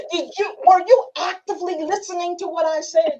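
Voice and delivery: high, pointed question leaning on "actively"; mock interrogation, "actively" picked out high; stress on "actively". Shown as a demonstration. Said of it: "That's when you're gonna use that word".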